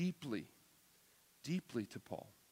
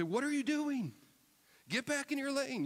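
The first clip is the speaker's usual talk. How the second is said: much higher and louder, alarmed; urgent shout; 13 semitones higher, 5 dB louder than usual. Retold or imitated. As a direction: shout it at the swerving teenager. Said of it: "You say with some, some urgency".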